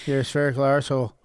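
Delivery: put-on botched Scouse accent slipping into Irish; Irish-sounding Scouse attempt. Reading an insult to co-host, accidental Irish accent. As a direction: try Scouse, land in Irish. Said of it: "I'm still Irish".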